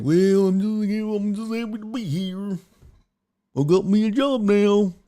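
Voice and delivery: mock a grateful nobody just glad to have the job; meek new hire. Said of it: "He's gonna hire somebody who's like".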